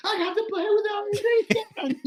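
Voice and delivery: put-on high, laughing squeal of a thrilled kid; childlike glee. Bounding off stage after playing with his hero, squealing like a child. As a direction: gush it out like an overjoyed child. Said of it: "like a child".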